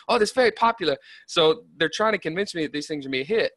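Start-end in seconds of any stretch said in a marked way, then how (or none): 0.1-1.0 much higher-pitched mock Chinese accent; hammed-up, not-good Chinese accent; bad Chinese accent. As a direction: badly imitate a Chinese speaker's English, pitched well up.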